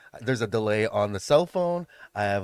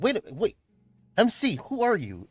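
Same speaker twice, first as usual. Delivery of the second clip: excited fan; 9 semitones higher than usual. Retold or imitated. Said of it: "they're like".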